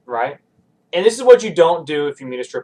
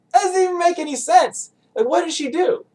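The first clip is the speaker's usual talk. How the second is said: incredulous; 13 semitones higher than usual. Retold or imitated. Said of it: "And I was like".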